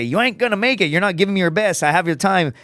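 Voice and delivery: lightly voiced coach taunt; mild coach impression fading to own voice; coach's taunt. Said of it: "he would literally say".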